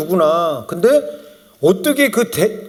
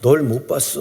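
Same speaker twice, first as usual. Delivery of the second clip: low, lightly voiced Chungcheong grandmother; deadpan Chungcheong comeback, pitched down; 6 semitones lower than usual. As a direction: imitate an unbothered old woman from Chungcheong. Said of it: "그게 충-, 충청도".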